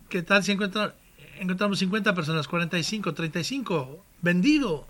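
rattling off bids like an auctioneer; fast auction patter, then sold. Retold or imitated. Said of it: "Abraham suena como un subastador".

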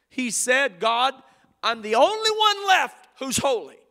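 a mad, self-pitying prophet; complaining Elijah. Acted. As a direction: protest to God from the cave.

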